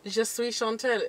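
mimicked French introduction; put-on French accent. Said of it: "we haven't put down French".

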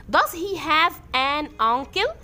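Does he have an uncle read very slowly; slow question reading. Shown as a demonstration. Teacher reads the next sample question slowly. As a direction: stretch out every word for the class. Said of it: "طب ناخد سؤال كمان".

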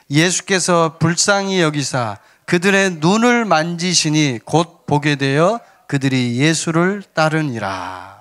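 slow, measured Bible reading; scripture reading. Acted. Pastor leading the congregation through a verse, slow declaimed reading. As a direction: read the verse out slowly for all to follow.

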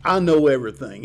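a hint of a smug, arrogant king; lightly voiced arrogant Pharaoh. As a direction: toss it off like a man who thinks he knows it all. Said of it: "I see him as an arrogant, uh, individual who says".

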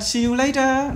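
"See you later" the British way, true t in "later"; high British-style "See you later"; British crisp t in "later"; British pronunciation. Shown as a demonstration. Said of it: "Người Anh".

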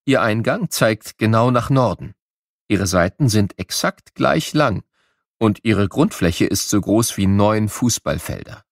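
usual speaking voice

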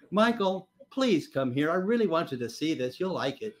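mild imitation of a coaxing wife; wife's coaxing. Wife coaxing her reluctant husband downstairs, gently persuasive. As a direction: coax gently, without calling out. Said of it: "The next phrase always kills me".

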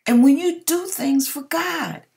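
fighting back tears; real emotion welling up; getting emotional. Real, not acted. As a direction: voice rising high as emotion takes over. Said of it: "I'm trying not to get emotional".

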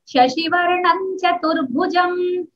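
slow recitation with "शशिवर्णं" ending in the nasal ं; संहिता पाठ. Shown as a demonstration. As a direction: chant slowly, let "शशिवर्णं" glide into "चतुर्भुजं". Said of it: "वो बोलना". (धीमे से संहिता पाठ)

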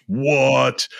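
drawn-out astonished "what", retold; stunned producer. Producer hears the boosted audio, mock astonishment. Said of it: "his face got just blown out".

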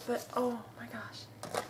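slow, whispered awe; drawn-out hushed oh my gosh. Real, not acted. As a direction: whisper it slowly. Too cute to unpack.

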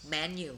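careful English "menu", MEN-yoo; English pronunciation. Shown as a demonstration. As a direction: show learners "menu" as MEN followed by yoo. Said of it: "เราออกเสียงคำนี้ว่า". (ออกเสียง "menu" ว่า แมน-ยู)

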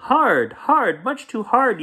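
put-on high, loud kid's yell; yelling child. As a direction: bellow it like a squeezed child. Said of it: "yelled Tate".

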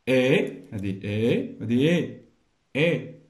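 "إي" held as a lone, clear vowel; vowel sound demo. Shown as a demonstration. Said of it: "غير من خلال الصوت".

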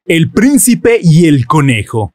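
put-on bedtime story read to a baby; storybook reading. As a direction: read it like a picture book at bedtime. Reads the story book aloud.

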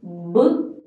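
"book" drawn out sound by sound, slowly; spelling it out. Shown as a demonstration. Teacher helping someone who hasn't understood, slowly spelling out "book". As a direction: stretch "book" into its separate sounds. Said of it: "So you'll spell it out".

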